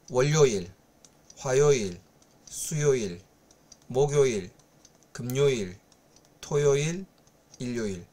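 each Korean weekday said once, low and careful; Korean pronunciation demo. Shown as a demonstration. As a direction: repeat the full Korean day names for practice. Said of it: "আর একবার বলে দিব". (আরেকবার Korean বারগুলো ধীরে উচ্চারণ)

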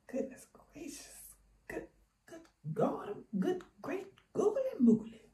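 high, startled exclamations; surprised exclaiming. Real, not acted. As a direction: yelp it out in surprise. Wig fitting tight, exclaiming.

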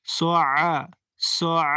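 সআ with the আ squeezed from the throat; গলার চাপ দিয়ে আইন; throat-pressed ain. Shown as a demonstration. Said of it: "গলার ভিতরে চাপ দিয়ে আইন উচ্চারণ".

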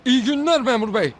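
Faruk emmi impression. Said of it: "yaparım Faruk emminin taklidini".

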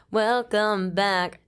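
slow, drawn-out host greeting; podcaster voice. Pretend. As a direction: stretch it out like a radio host. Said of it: "We're like podcasters".

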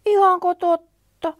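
high, loud slow amazed question; gasping wonder. Acted. Bunny hears snowman is on holiday, amazed. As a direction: breathe it out in wonder. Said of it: "pikkupupu henkäisi".

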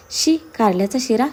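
slow, drawn-out "शी" of disgust. Acted. Wife imagining bitter-gourd halwa, disgusted. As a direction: recoil from the very idea, in disbelief.

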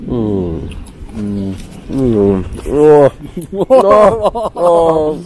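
lautes Oh mit vollem Mund; stöhnen, weil es scharf brennt; Brennen im Mund. Real, not acted. Probiert scharfe Cabanossi, reagiert. (genussvolles Mm, dann lautes Oh)

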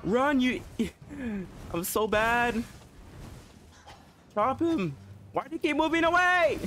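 high frantic yelps with a laugh; panicked yelling. Real, not acted. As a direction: yell in high-pitched panic at the enemy. Panicked fight against a boss.

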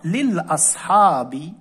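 each word read slowly with a pause after it; slow dictation-style reading of the word list; slow careful list. Shown as a demonstration. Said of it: "الكلمات اللي حصلنا عليها".

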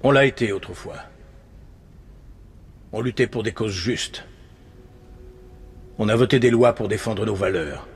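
subdued, solemn nostalgia; wistful reminiscence. Acted. Panelist recalling what the country once was, wistful reminiscence. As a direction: come down from the rant into sober remembrance.

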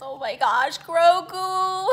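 high, loud squeal of the name; squealing adoration. Real, not acted. Fan seeing Grogu up close, loud high squeal. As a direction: squeal with delight.

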